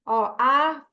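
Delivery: slow, stretched-out model reading; drawn-out finger-pointing pace; reading along. Shown as a demonstration. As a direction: lead a child through the words slowly. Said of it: "eu começo a leitura pra criança".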